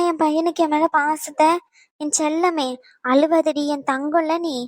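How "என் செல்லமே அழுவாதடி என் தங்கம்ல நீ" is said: tender soothing. Acted. Mother comforting her crying little son, slow and tender. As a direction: soothe him gently, slowly.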